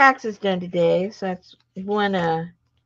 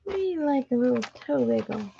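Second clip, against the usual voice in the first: excited cheer; 8 semitones higher, 3 dB louder than usual. Real, not acted. Cheering viewer's toe wiggle.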